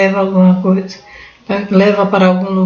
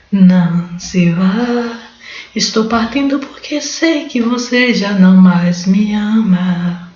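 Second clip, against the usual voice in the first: leitura dramática; slower than usual. Acted. Lê a letra da música brega.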